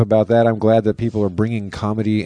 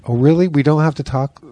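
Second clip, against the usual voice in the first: bro voice; 4 semitones higher than usual. Retold or imitated. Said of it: "started talking like Swartzen again".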